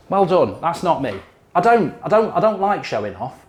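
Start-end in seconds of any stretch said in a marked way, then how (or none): 0.1-0.6 milder mock praise. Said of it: "people out there like that".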